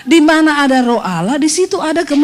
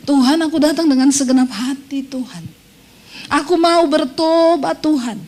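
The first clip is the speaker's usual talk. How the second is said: prayerful plea. Shown as a demonstration. Models a prayer of repentance.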